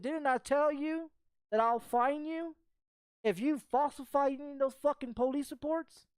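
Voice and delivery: acting out a pointed challenge; retold confrontation. Acted confrontation with the arresting officer.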